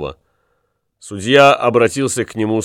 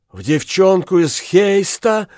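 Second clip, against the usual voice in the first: high, stunned outcry; shocked cry; 8 semitones higher than usual. A narrator's reading. Woman learns her lover loved another girl, high shocked cry. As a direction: jolt up in disbelief. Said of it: "вскричала Катлина".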